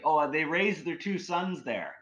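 high, slow called-out line; mock yell after someone. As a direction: call it out to someone walking away. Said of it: "he yells as I'm walking away".

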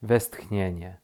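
usual speaking voice

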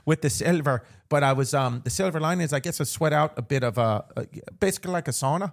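storytelling in a playful Irish brogue; put-on Irish accent. Host telling co-host a flight story, Irish accent. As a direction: keep the mock Irish lilt going.

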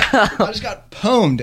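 drawn-out slang, deadpan; mock gamer slang. Real, not acted. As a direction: say pwned slowly like a gamer. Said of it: "as they say".

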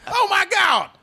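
high, yelled ringside commentary; wrestling voice. Retold or imitated. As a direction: scream it like a wrestling announcer. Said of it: "you both went into the wrestling voice".

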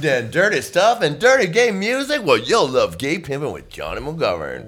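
put-on old radio ad voice. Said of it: "And it was like".

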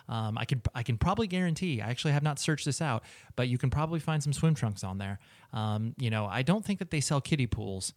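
easygoing podcast sponsor plug; conversational ad read. Real, not acted. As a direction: pitch the sponsor like a chatty host. Host delivers sponsor read.

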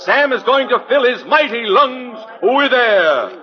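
grand sideshow barker spiel; booming carnival pitch to the crowd; florid victorian lecturer. Acted. Street pitchman hawking to a crowd.

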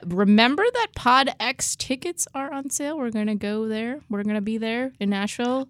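"on sale" lifted at the end as if asking; questioning tune. Real, not acted. Host plugging tickets to listeners, phrased as a question. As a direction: announce it as a question, rising on "sale". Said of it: "phrasing that as a question".

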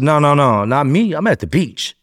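insistent denial. Retold or imitated. Denial to detective on phone.

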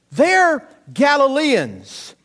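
kutipan dibuat-buat dengan nada tinggi dan lambat, meniru orang udik. Retold or imitated. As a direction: ucapkan "They're Galileans." pelan dan tinggi seperti logat desa. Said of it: "giving it away by their accent".

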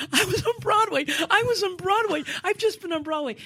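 high, excited repeating it to everyone; bursting with backstage joy; breathless excitement after a first show; giddy disbelief. Retold or imitated. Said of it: "I kept saying to everyone".

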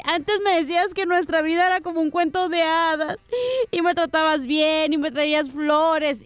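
lightly weepy wife, drawing out the words; a touch of tearful nostalgia; mock crying. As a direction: reproach your husband through pretend sniffles. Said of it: "le dice Mari llorando".

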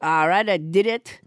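hammed-up puppet Trump voice, bossy and boastful; French Trump puppet. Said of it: "everybody's least favorite hand puppet, French Trump".

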